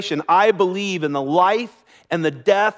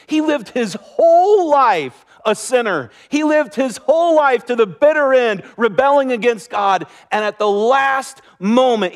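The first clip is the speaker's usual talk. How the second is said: louder and higher, leaning on whole; emphatic preaching; 4 semitones higher, 4 dB louder than usual. Real, not acted. Pastor stresses the thief's rebellious life, loud and emphatic. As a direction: preach it with building force. Preacher drives home point.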